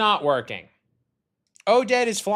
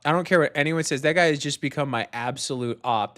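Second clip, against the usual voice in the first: normal talking voice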